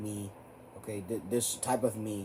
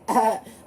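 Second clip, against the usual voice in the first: stupid laugh; 10 semitones higher, 7 dB louder than usual. Retold or imitated. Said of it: "Black stupid laughing like".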